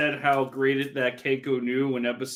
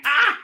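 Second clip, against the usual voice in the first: mock scream; 12 semitones higher, 5 dB louder than usual. Joking about demons eaten.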